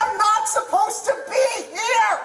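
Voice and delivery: very loud, high-pitched shouting. Arguing with a police officer over a stolen car: shouting. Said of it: "If you don't lower your voice".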